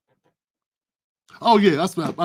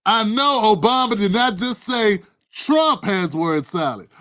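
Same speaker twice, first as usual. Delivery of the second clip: can't believe what he heard; disbelief. Real, not acted. Streamer reacting to Obama's word salad line, stunned.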